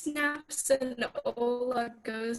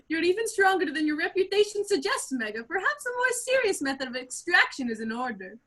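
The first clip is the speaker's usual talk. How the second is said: bad Russian accent; 5 semitones higher than usual. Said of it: "He speaks with a bad Russian accent".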